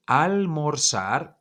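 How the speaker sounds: teacher spelling out Almorzar by sound; slow Spanish model word. Shown as a demonstration. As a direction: model Almorzar slowly for learners to repeat. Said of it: "ayer verb".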